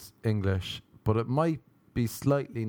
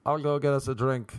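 imagined sober self; 4 semitones higher than usual. Acted. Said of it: "In my head, I was saying".

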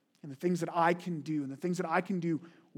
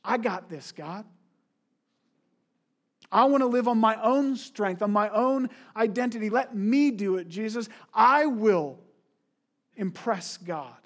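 mock toddler defiance toward God, rising loud; hammed-up self-reliant boast; proud childish believer; 5 dB louder than usual. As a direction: insist like a stubborn child, louder on the middle. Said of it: "we say".

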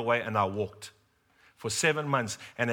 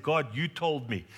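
crying out to God; slower than usual. Retold or imitated. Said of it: "I'm crying out to God".

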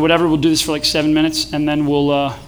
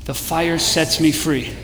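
slow, low, softened voice; soft, unhurried recitation; measured group mantra; 4 semitones lower, 6 dB quieter, slower than usual. Shown as a demonstration. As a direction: lead the room gently, word by word. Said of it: "Say that with me".

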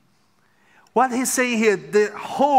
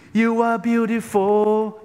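mock praise; 4 semitones higher, slower than usual. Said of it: "Just praising us".

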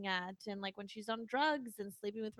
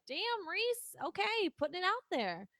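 impressed surprise; 8 semitones higher than usual. Retold or imitated. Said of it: "you're like".

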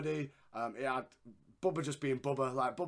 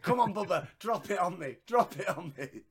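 higher, louder playful plea; mock begging; 4 semitones higher, 4 dB louder than usual. Imagining Rico begging Bubba for the splash, playful mock plea. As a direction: beg Bubba to drop it, teasing. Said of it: "I was like".

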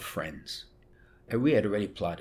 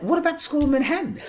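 much higher, louder and fast repeat; father repeating his question more insistently; father insisting; 7 dB louder, faster than usual. Retold or imitated. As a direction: press the question hard as Dad. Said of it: "He said".

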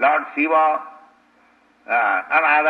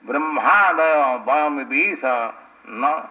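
Sanskrit verse recitation. Acted. Preacher reciting Prahlad's prayer to the congregation, measured verse recitation.

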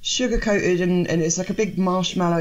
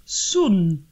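fake northern English accent; 3 semitones higher, much slower than usual. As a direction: ham up a bad northern English accent, drawn out. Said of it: "the northern woman going".

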